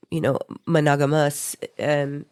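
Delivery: blocked nose, congested; stuffy nose. Real, not acted. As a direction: talk through a stuffy nose. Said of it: "I'm a little stuffy here".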